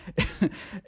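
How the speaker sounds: brief breathy laugh; a quick, quiet chuckle to yourself; short chuckle. Real, not acted. Host amused while explaining the dropped prosecution, short chuckle.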